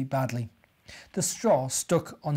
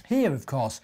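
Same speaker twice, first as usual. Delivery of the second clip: proud grunt; 4 dB louder than usual. Acted. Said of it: "grunted Wally proudly".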